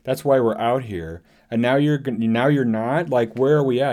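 demanding to know what he is doing; exasperated disbelief. Retold or imitated. Shin confronting Baylan, exasperated and incredulous. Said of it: "And she's like".

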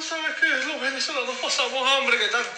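imitating a tearful online complainer; lightly mocked sob story; mock whining. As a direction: make fun of a crybaby's lament. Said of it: "chamo que estaba llorando".

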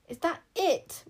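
high, loud outraged queen; raging. A narrator's reading. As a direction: rage at them in disbelief. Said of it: "raged Queen Sycorax".

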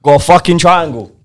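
high, loud half-laughing complaint; laughing outrage. Real, not acted. Friend venting to his mate about the triangle, loud and laughing. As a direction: rant through the laughter.

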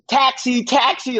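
high, hammed-up American accent hailing a cab; mock American accent. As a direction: call the taxi in a put-on American accent. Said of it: "trying to be like an American".

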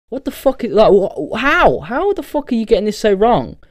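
yelling at a phone that keeps getting it wrong; exasperated outburst. Retold or imitated. Venting at autocorrect for a baffling word, high exasperated yell.

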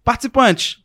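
loud, formal mock announcer; mock-solemn game-show proclamation; reading an announcement. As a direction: proclaim it to the contestants like an official notice. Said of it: "eu ia ler e falar assim".

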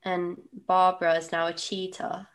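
a slip into a light British accent; lightly British reading of the line. Real, not acted. Reading the plot in a lightly British accent. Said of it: "I don't know why I said that with a British accent".

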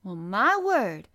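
whispered, amazed Yorkshire; astonished whisper. A narrator's reading. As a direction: breathe it out in shock. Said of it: "speaking rather broad Yorkshire herself".

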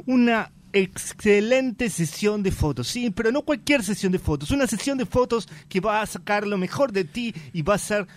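punchy commercial announcer read. Acted. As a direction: sell it like a TV spot. Acts out a TV commercial.

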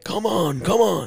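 high mock hurry-up call; squeaky big-kid urging, come on. Big kids hurrying little ones across.

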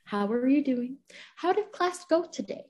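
a teacher checking in gently with a student, calm and caring; calmest tone. Retold or imitated. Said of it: "in the most calmest tone".

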